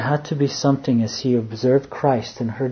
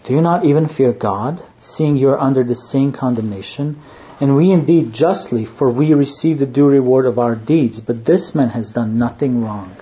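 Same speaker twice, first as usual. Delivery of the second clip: stern rebuke; 4 dB louder than usual. Acted. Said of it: "the other answering rebuked him".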